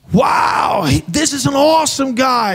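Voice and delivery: rally the whole club behind him; MC shout. Retold or imitated. Preacher praising the manager to the crowd, shouting. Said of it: "och så sa jag att".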